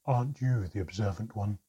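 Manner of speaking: loud, sarcastic reply; mock them with dry sarcasm; deep-voiced sarcasm. A narrator's reading. Mermaid answers an obvious question, sarcastic. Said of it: "her deep voice laced with sarcasm".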